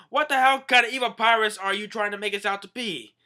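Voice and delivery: high, loud put-on voice; indignant Usopp. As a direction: protest being called evil pirates. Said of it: "Usopp Yong's like".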